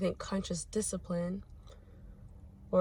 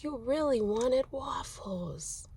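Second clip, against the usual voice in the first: whispered gently and slowly, higher; soft whisper; 6 semitones higher, slower than usual. Retold or imitated. Mom whispering comfort to her sobbing son. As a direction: breathe the words softly to a crying child. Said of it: "I was like".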